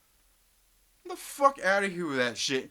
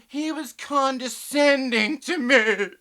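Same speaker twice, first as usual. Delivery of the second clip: mocking laugh; 4 semitones higher, 6 dB louder, slower than usual. Real, not acted.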